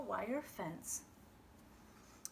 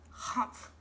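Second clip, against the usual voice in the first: huff. Acted. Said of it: "he huffed".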